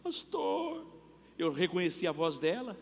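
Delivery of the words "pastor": voz aguda e chorosa de irmã aflita; irmã chorando. Retold or imitated. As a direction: imitando uma irmã que chora ao telefone. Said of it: "tocou uma irmã chorando". (irmã liga chorando para o pastor, voz aguda e chorosa)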